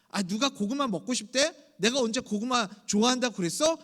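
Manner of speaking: mildly grumpy retort, gaining force; sulky child. Acted. Child refusing grandmother's sweet potato offer, mock sulky. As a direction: imitate a kid snapping back in a sulk. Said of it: "할머니한테 괜히 심통을 부리는 거죠".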